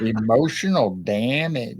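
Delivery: lightly imitated meme catchphrase, drawn out; mock catchphrase. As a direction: slowly stretch it like a catchphrase. Echoing the soundboard catchphrase.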